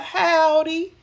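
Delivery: high, drawn-out howdy; high-pitched singsong welcome; grandma's greeting. Retold or imitated. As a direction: imitate grandma calling out a cheery hello. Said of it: "She'd be like".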